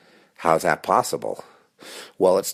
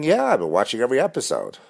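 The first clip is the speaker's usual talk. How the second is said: a hint of a nosy fan, higher and fast; gossiping stranger; 3 semitones higher than usual. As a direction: tease him like a viewer of his show. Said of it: "you been watching?".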